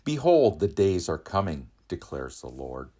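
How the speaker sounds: ordinary talk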